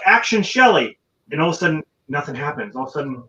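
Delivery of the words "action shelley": higher, louder call of action; mock director's call. The director calling the actress out the door, mildly imitated call. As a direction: call it like an impatient director on set. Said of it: "he's like".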